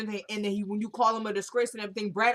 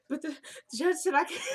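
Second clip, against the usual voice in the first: high-pitched mock sobbing gasps; hammed-up breathing-in cry; imitated crying; 6 semitones higher than usual. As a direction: fake a breathless, tearful protest. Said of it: "that crying thing that she does".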